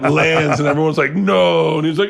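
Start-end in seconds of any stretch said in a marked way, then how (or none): 1.1-1.8 higher, drawn-out mock cry; mock crowd dismay. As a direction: groan it out as the whole audience. Voices dismayed crowd as hair lands.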